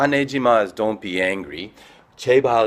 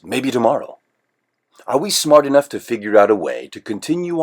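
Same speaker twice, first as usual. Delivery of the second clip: scripted monologue; 4 dB louder than usual. Acted.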